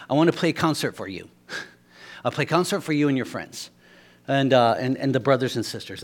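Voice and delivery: put-on a light, quick Cuban accent in broken English. Preacher lightly imitating a Cuban friend's broken English, quick. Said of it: "I'm gonna say it how he says it".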